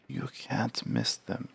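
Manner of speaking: put-on high, slow, hushed old Varl; creaky elder giant, slow and soft. Voices old Varl character.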